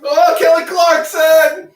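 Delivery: high drawn-out yell of pain; pained shout. Real, not acted. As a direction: howl out the pain slowly. Strip ripped off.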